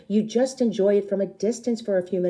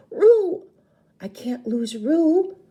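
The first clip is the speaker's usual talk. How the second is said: high loud cry of her name, then slower; alarmed shout; 10 semitones higher, 7 dB louder, slower than usual. Acted. Losing her sister in the jungle, alarmed cry. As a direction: cry out in panic.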